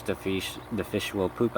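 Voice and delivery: Filipino accent. Real, not acted. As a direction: slip into a Filipino accent, fish said as "feesh". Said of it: "I'm sorry, Filipino accent".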